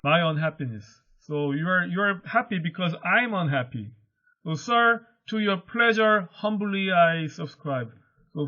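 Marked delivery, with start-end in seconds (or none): 4.5-7.9 higher and louder, slowing at the end; bow to father, meek and dutiful; lightly voiced humble daughter. Teacher voicing Bianca to father.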